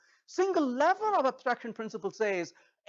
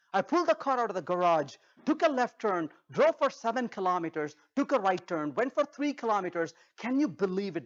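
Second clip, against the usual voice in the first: tediously detailed. Shown as a demonstration. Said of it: "Instead, you say".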